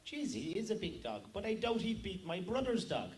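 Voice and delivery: lightly put-on Cork lilt; Cork accent. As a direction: play the little Cork man's lilting accent. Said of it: "Cork man says".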